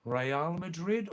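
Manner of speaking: Real as "ray-AHL" in two syllables; correct Spanish pronunciation. Shown as a demonstration. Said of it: "Number one".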